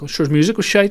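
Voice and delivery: mock dad brushing it off; Northern Irish dad. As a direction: scoff like an old Belfast dad. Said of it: "Northern Irish dad response".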